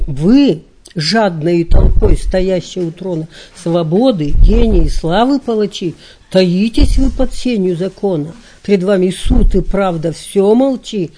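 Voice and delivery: solemn, emphatic recital with falling line endings; poetry recitation. Acted. Lecturer quoting Lermontov's verses on Pushkin's death, solemn declamation.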